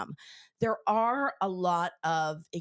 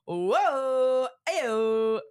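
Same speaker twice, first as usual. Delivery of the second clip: excited exclaim; 7 semitones higher, 6 dB louder than usual. Real, not acted. Reacting loudly to something.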